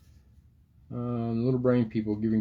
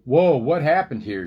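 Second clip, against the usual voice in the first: louder, higher startled cry through chattering teeth; 5 semitones higher, 7 dB louder than usual. Acted. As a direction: gasp it out as if shivering. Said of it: "her teeth chattering".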